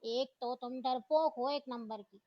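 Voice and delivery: put-on girl scolding her friend as a coward, mildly angry; angry retort. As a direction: spit out the insult in mild anger. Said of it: "हमना गुस्से में बोली".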